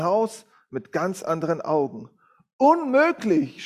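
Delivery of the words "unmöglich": drawn-out, higher, louder cry of disbelief; shouted. A narrator's reading. Man sees his messy house, shouts it slowly and loudly. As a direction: stretch it out in a loud, high cry of dismay. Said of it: "schrie er".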